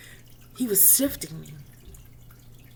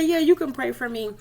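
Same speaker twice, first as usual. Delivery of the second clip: high laughing reply; laughing while speaking; 6 semitones higher than usual. Real, not acted. Answering Patricia in the prayer room, laughing. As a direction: let the laugh run through the words.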